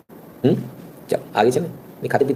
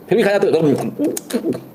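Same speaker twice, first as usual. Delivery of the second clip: higher, very slow teasing; mock disbelief; 7 semitones higher, much slower than usual. Vlogger teases viewers who still eat golgappe, slow mock disbelief.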